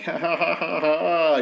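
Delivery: a spelled-out ha-ha-ha, rising in volume; mock laugh. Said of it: "He's just laughing".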